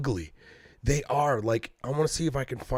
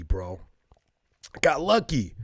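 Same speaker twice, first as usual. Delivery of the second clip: ordinary talk, nothing marked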